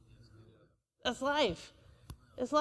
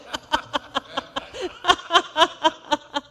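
an open, amused laugh; real laugh; 4 semitones higher than usual. Real, not acted. The pastor laughs with the church at his dog story, amused. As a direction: laugh at the story you just told.

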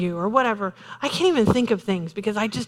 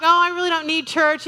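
higher, breezy brush-off; dismissive; 5 semitones higher than usual. Retold or imitated. Preacher imitating relatives dismissing church, breezy. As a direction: wave church away lightly. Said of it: "they're like".

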